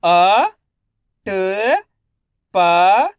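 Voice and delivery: अ, ट, प each sounded alone with pauses; letter by letter. Shown as a demonstration. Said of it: "देखो किस तरीके से है।". (अक्षर-अक्षर अलग करके)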